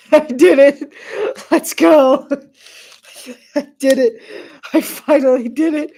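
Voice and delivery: loud, high triumphant cheer, laughing and near tears; overjoyed shout of victory; excited cheering. Real, not acted. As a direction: celebrate finally beating it. Finally succeeds at a video game.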